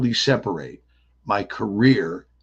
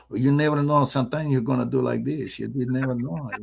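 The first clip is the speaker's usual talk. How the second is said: lightly put-on character voice; one of these guys; 2 semitones higher than usual. Shown as a demonstration. Actor slips into a guy's voice for fun, lightly put-on character. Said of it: "I'll be one of these guys".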